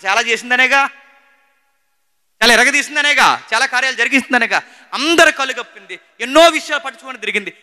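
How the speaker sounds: high, loud, emphatic sermon delivery; impassioned preaching. Real, not acted. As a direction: preach it at full force, driving each point. Preaches at full force.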